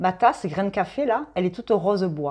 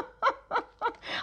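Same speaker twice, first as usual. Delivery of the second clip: high laugh; 9 dB quieter than usual. Real, not acted. Laughing at her own remark.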